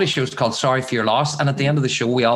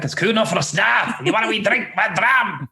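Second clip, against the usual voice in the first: high, hearty Scottish brogue; imitating a broad Scottish local; strong Scottish accent; 7 semitones higher than usual. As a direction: put on a thick Scottish dialect. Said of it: "strong Scottish dialect".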